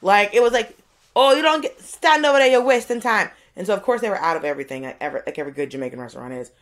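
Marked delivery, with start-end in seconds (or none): 1.2-3.3 higher, louder impatient shop-lady voice; bossy cashier. Retold or imitated. Cashier waving the newcomer out of line, loud and impatient. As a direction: shoo them aside, no time to waste. Lady shooing customer aside.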